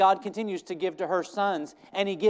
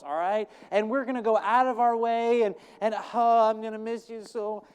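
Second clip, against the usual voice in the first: higher, louder hammed-up mother; mock exasperated mother; 3 semitones higher, 3 dB louder than usual. Hannah complains about the dad, higher and louder, hammed up. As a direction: grumble about the boy's dad. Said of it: "pretend if I was Hannah".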